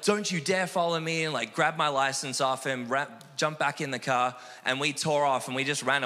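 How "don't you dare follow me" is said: retold warning, pitched higher; mild mock yell at an officer; mock screaming. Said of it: "I started screaming at this police officer".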